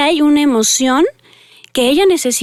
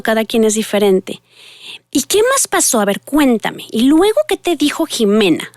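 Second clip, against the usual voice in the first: entering her world; 3 semitones higher than usual. Shown as a demonstration. Mother praising daughter from the driver's seat, delighted. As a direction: praise the child's answer with real wonder. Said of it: "¿Sí, sí se fijan mi tono de voz?".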